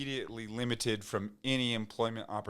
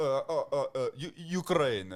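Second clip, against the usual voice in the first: put-on Eastern Slavic accent with raised pitch; 4 semitones higher than usual. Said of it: "deep Eastern Slavic".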